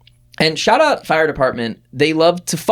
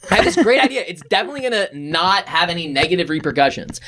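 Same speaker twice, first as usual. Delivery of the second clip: mock bright idea; 3 semitones higher, faster than usual. Mocking own past bright idea.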